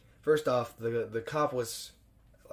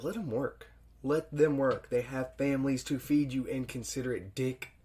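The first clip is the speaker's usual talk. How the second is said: slightly raised mock rebuke; mock scolding; 3 semitones higher, 3 dB louder than usual. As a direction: tell the killer off, half-joking. Scolding Chucky for killing workers.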